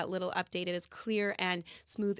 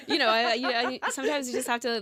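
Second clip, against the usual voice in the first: laughing; 4 semitones higher, 6 dB louder than usual. Real, not acted. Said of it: "laughing after the radio remark".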